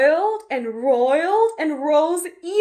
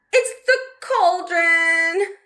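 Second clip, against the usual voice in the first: slow, louder alarmed cry; cried out; 4 semitones higher, 4 dB louder, slower than usual. Acted. Betty calling to Mum coming back from the shop, alarmed. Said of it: "cried Betty".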